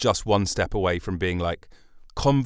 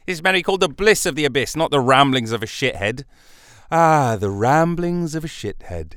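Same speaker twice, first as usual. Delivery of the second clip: mock exasperation; 4 semitones higher, 5 dB louder than usual. Mock-outraged podcast rant.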